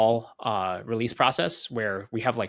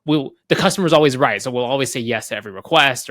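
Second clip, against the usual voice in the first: eager yes-man; 7 dB louder than usual. Retold or imitated. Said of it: "the policy could be something like".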